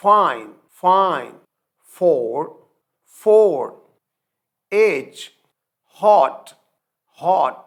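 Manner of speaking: each word called out loud, said twice; loud pronunciation drill. Shown as a demonstration. Teacher drilling voiceless words, loud. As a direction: call each word loud with a falling tune. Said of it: "ایف".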